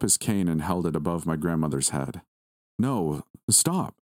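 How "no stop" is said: a hint of a scream, pitched up; mild mock scream. Mark to Lucifer, a mild acted scream. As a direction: cry out to stop him, understated. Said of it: "I screamed at him".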